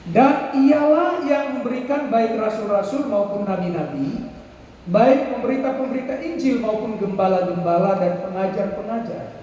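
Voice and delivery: put-on measured Bible reading to children; scripture reading. Preacher reading Ephesians aloud to the children. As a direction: read the verse out with care.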